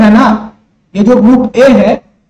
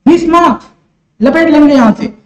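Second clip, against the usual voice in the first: student voice; 3 semitones higher than usual. Retold or imitated. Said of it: "बोले".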